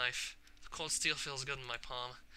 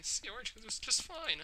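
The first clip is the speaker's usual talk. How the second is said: high, laughing repeat; a cracked, mocking laugh at herself; bitter laugh; 9 semitones higher than usual.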